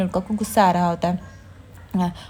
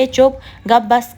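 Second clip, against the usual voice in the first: sharp hush; 3 semitones higher, 6 dB louder, much slower than usual. Retold or imitated. Renuka silencing Tejas.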